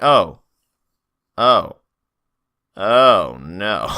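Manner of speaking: loud, separated ohs with long gaps; hammed-up "uh-oh" reaction; mock dismay. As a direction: let the mock dread land one oh at a time. Acted dawning dread at attack.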